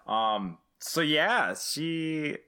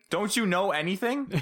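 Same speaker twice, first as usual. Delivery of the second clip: much higher, incredulous repeat of Don't you know anything; pitched-up mock scolding; mock exasperation; 9 semitones higher than usual. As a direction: push it up into disbelief. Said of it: "repeated with more force".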